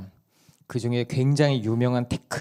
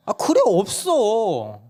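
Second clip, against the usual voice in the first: 높고 아주 느리게 시큰둥한 엄마; 귀찮은 듯 인정하기; 9 semitones higher, 4 dB louder, much slower than usual. Retold or imitated. 엄마가 인정. (막내에게 시큰둥한 아내 말투)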